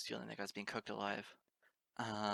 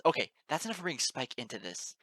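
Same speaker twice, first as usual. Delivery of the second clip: sudden louder angry snap; snapping; 4 semitones higher, 9 dB louder than usual. A narrator's reading. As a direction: cut them off sharply. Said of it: "Twilight suddenly snapped".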